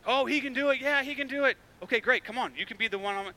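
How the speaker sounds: a brightly pitched, hammed-up fan; eager believer. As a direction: play the confident fan gushing. Mock eager believer then balks.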